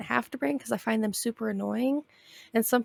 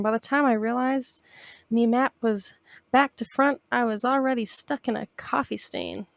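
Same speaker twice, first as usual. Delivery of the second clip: pirate voice. Acted. Reads pirate captain's lines.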